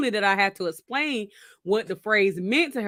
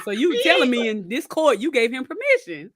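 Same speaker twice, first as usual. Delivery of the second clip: higher, laughing incredulous judge; judge's disbelief; 5 semitones higher than usual. Retold or imitated. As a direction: play Judge Judy in mock shock. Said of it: "It was like".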